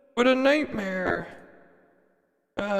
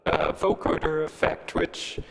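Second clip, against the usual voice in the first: vocoder effect; 3 semitones higher than usual. Real, not acted. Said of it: "why my voice is so high, it's 'cause, uh, it switched over to, um, the, uh, vocoder effect".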